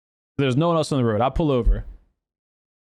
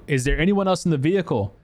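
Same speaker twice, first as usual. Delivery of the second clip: raised-pitch, mildly urgent question; retold yelling; 4 semitones higher than usual. Rescuer asking crying girl about passengers, mild retold yell. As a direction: lightly act calling out a question. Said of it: "I'm yelling at her".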